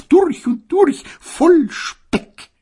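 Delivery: high, loud sneer on durch und durch; gossipy sneer. Acted. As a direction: drawl the durch und durch mockingly. Gossip quoted, later echoed. (hohes, spöttisches durch und durch)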